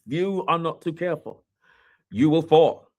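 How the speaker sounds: rising warning. Acted. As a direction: build to a stern warning. Warning to leaders.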